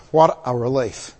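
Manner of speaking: understated, relieved exhale; sighing relief. Acted. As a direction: let out a long breath of relief. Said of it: "you sighed deeply".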